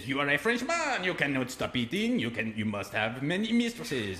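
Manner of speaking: mock French accent. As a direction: scold him in a mock French voice. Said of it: "I'll tell it in his voice".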